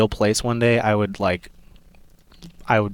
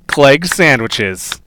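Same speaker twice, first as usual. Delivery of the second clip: ad announcer; 3 semitones higher, 5 dB louder, much slower than usual. Pretend. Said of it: "Very good".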